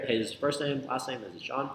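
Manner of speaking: "first name, last name" said as if asking; questioning intonation. Shown as a demonstration. Coach showing the call opener, questioning intonation. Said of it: "I say that in, like, a question format".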